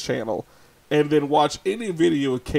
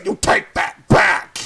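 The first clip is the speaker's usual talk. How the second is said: drawn-out, raised-pitch bully demand; mock bully; 6 semitones higher, 7 dB louder, slower than usual. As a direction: order it loudly like a bully. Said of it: "that's what a bully does".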